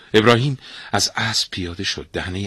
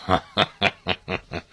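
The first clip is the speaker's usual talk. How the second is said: king's laugh; 5 dB quieter than usual. Acted. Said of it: "لبخندی زد".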